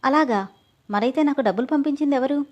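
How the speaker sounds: a light puzzled lift of surprise; surprised. Acted. Amrutha to her uncle, mildly surprised. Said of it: "ఆశ్చర్యంగా".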